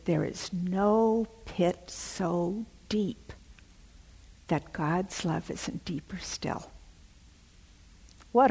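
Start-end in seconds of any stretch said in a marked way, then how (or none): 0.1-6.7 hushed and slow. Retold or imitated. Betsy's message, slowed and hushed.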